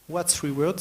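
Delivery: real French accent on English words; accent français en anglais. Real, not acted. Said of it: "super mon accent anglais". (accent français sur l'anglais)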